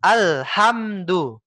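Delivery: slow Alhamdu, each syllable a little broken off; imitating student's reading. Teacher mimicking the student's broken reading, mildly choppy. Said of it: "Tadi Bapak bacaan seperti ini".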